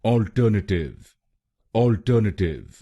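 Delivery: अल्टरनेटिव said whole as ɔlʈənəʈɪʋ; syllables joined back into अल्टरनेटिव; full word demo. Shown as a demonstration. Teacher blends the syllables into the full word. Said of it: "तो बनेगा".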